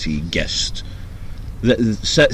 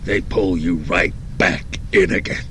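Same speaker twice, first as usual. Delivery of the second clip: put-on Italian mobster accent; 3 semitones lower than usual. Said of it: "Is that Godfather".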